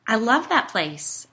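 loud, high, drawn-out delight; slow, emphatic enthusiasm; gushing enthusiasm. A narrator's reading. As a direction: gush about a favorite spot. Gushing about the dump swap.

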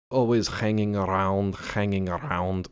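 slow, drawn-out mock Russian accent; a lightly done Russian gambler accent. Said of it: "Fuck, that accent".

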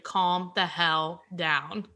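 slow, spaced-out words; drawn-out, exasperated comeback; exasperated retort. Retold or imitated. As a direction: tell them off slowly. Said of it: "they're, like, blowing your shit up".

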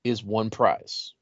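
excited reveal. Real, not acted. Big reveal.

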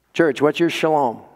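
ordinary talk, nothing marked

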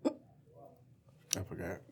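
slow whisper. Real, not acted. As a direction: whisper it slowly. Whispered aside.

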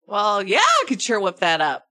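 lightly hammed accented barkeep; a hint of a put-on tavern accent; bad-accent barkeep. Barkeep agreeing to mix a drink, lightly put-on accent. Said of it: "okay with this accent".

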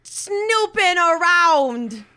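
smug bluff. Acted. Player voices character to guards.

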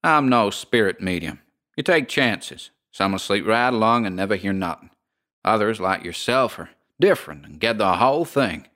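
lightly voiced American landlady, unbothered; drawling landlady.

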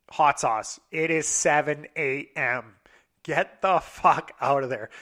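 slow, deliberate warning; emphatic warning. Retold or imitated. Friend telling him to leave the club, emphatic warning. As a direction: spell it out word by word, slowly.

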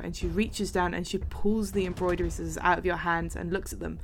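usual speaking voice

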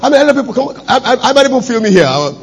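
high-pitched, sputtering complaint; indignant protest. Acted. Acts his protest at being fired.

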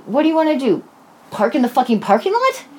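high-pitched sarcastic question. Retold or imitated. Woman sarcastically asks her date about plans, sarcastic. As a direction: ask it with mock disbelief. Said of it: "you didn't hear the sarcasm".

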